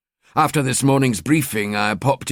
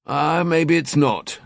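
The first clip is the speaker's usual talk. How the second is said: half agreeing; 5 semitones higher, slower than usual. Acted. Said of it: "Donnelly half agreed".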